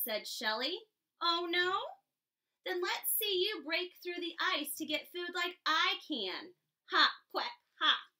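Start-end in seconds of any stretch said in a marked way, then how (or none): 1.2-8.1 lightly voiced duck, taunting; mocking duck. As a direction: tease like a smug duck. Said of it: "quacked the duck".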